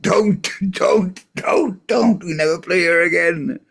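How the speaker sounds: panicked pleading shout. Retold or imitated. Bassist holding the singer back, a high panicked plea. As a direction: grab him back and beg him to stop.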